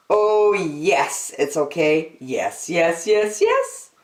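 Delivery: put-on a small girl daring herself to push one button; Angela talking herself into it. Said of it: "Angela said".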